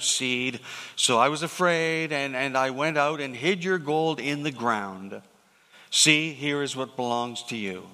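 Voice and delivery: measured, solemn Bible reading; steady reading voice from the pulpit; scripture reading. Acted. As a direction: read the parable like a lectionary. Reads the parable aloud.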